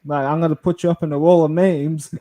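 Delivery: loud, aggressive warning to a troll; retold threat. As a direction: puff up and threaten him. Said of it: "And I'm like".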